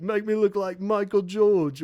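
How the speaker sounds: a teasing little jab; mocking band member. Band mocks a singer at makeup, lightly teasing. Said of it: "they're like".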